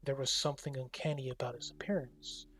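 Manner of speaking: steady read-aloud narrator voice; story narration. A narrator's reading. Streamer reading the game's text to chat, narrator style. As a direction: narrate the scene for viewers.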